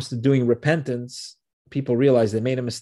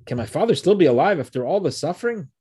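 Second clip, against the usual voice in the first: incredulous; 5 semitones higher, 3 dB louder, faster than usual. Retold or imitated.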